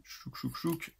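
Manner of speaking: soft little chouk sounds; imitated closing noise. Shown as a demonstration. Showing viewers how the brush closes, softly imitated noise. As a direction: make small mechanical sounds under the breath. Mimes the case snapping shut.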